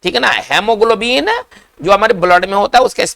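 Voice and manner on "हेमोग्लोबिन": हेमोग्लोबिन slow, opening हे, rising end; slow model word. Shown as a demonstration. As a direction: spell it out slowly as हेमोग्लोबिन. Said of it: "अंग्रेजी में पढ़ेंगे".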